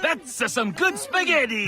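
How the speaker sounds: slow, hammed-up Italian accent; a terrible mock Italian accent on the spaghetti line; bad Italian accent. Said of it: "That accent is terrible".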